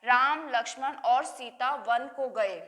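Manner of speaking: sentence read slowly with pauses after Ram and Lakshman; slow, careful example sentence; slow demo. Shown as a demonstration. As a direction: model reading that marks each comma pause. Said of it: "अल्प विराम चिन्ह का प्रयोग किया जाएगा".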